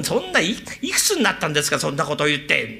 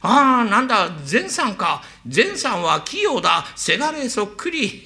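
mild deflated father; 4 semitones higher, slower than usual. Retold or imitated. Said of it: "お父っつぁんがだれちゃいまして".

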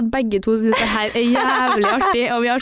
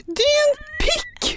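høyt, skingrende rop «Din pikk!» ut vinduet; ropt skjellsord. Retold or imitated. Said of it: "lener hodet ut og bare sånn". (roper ut vinduet til kjæresten, høyt og høyere)

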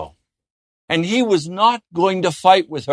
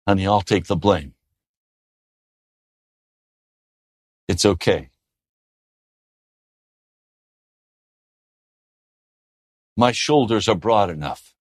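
gentle; 10 semitones lower than usual. Retold or imitated. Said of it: "why don't you just say".

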